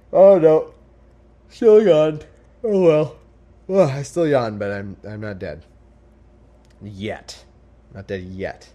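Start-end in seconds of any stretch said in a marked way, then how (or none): 0.1-4.6 mock outcry. Hammed-up comic aside, far louder.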